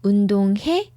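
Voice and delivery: 운동해 with the end going up; 운동해 as a question; rising intonation. Shown as a demonstration. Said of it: "goes up".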